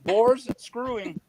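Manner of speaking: slow repeat. Real, not acted. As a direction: repeat "Boris screwing" slowly for someone who missed it. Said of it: "It sounds like what?".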